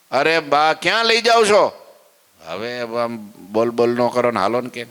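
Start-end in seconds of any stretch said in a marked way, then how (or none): 0.1-1.9 surprised question. Acted. Maharaj surprised, pulled by wrist.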